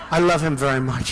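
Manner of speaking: mocking Rubio's fake love for Bush, laughing; laughing mock affection. Rubio asked about Bush, laughing mock affection. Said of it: "Then they said to Rubio".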